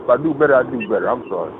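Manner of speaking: low, soft, sinking away; meek apology. Real, not acted. Man apologizing to Bianca after being scolded, meek and hushed. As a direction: apologize small and low, fading out.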